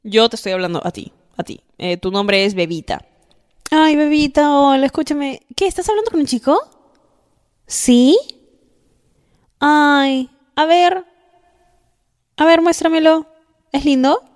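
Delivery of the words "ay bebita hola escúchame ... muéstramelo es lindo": high, louder, gushy greeting and questions; gushing friend. Acted. Friend asks Bebita about the boy she's chatting with, gushing. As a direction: play the nosy, excited girlfriend. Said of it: "vamos a hacer un escenario ahorita".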